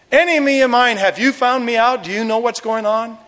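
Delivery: high-pitched, startled questioning; hammed-up alarmed questions; acted shock. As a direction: play a shocked king who has been found out. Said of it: "was shocked, and he said".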